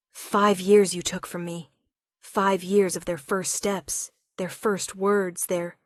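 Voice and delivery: slow, grieving, breaking off; voice failing with grief. Acted. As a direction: let the voice give out. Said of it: "his voice failed".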